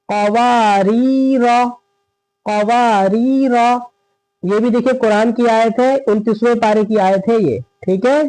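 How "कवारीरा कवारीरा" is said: "कवारीरा" very slowly, long waa and rii, short final ra; recitation model. Shown as a demonstration. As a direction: draw out the middle of "कवारीरा". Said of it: "फिर क्या है?".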